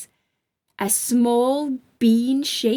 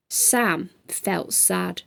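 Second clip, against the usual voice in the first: sad; 4 semitones lower, 6 dB quieter, slower than usual. A narrator's reading. Narrator lingers on sadness.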